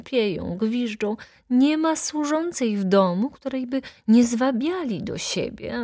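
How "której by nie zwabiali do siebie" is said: plain reading voice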